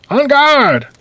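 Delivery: high, drawn-out battle cry; swordsman's challenge. Acted. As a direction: call out a gallant fencing challenge. Uncle Pete challenges with sword.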